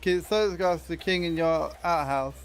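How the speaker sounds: talking with tongue out; tongue sticking out. Real, not acted. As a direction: speak with your tongue stuck out. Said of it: "I mean, I guess I can".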